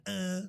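short imitated grunts, one per lash; mimicked "uh" of someone being struck; mock whipped grunts. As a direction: re-enact the whipping reaction in little bursts. Repeats the imitated whipping reaction.

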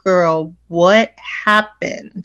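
very slow, drawn-out asking; acted concerned question. Black woman to black woman, slowly probing. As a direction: stretch out each word to a friend.

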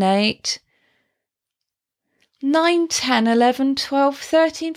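steady phrased counting with breaks; counting in fluent phrases. Shown as a demonstration. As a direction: count in smooth phrased groups with pauses for breath. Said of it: "So, for example".

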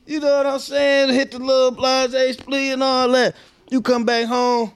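high-pitched comic build-up; animated storytelling. Real, not acted. Host tells of a fun barbecue night, high animated riff. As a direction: voice way up, riffing excitedly.

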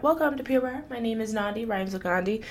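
mildly upbeat instructor greeting; class greeting. Retold or imitated. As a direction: welcome the class like a fitness teacher. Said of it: "every single time I teach a Pure Barre class".

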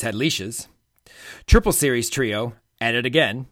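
punchy scripted podcast teaser; headline teaser read. Acted. Host teasing this week's gymnastics news to listeners, punchy headline read. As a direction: deliver each headline as a playful hook.

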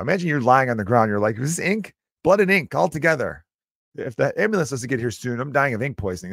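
high, breathless play-dying; mock dying victim. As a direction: ham up the stabbed guy on the ground.

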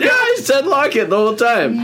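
insistent shout. Real, not acted. Host insisting he said the secret word, shouted. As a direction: shout your defence over the others.

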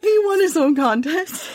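high, giggling through the words; can't get it out for laughing. Real, not acted. Host cracking up at the founder, laughing hard.

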